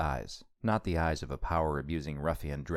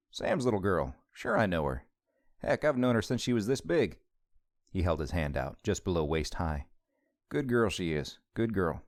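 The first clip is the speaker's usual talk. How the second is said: a hint of a warm small-town lawman, a bit higher; lightly voiced Southern deputy; 3 semitones higher than usual. Deputy recalling Leah fondly to Lance, lightly voiced Southern lawman.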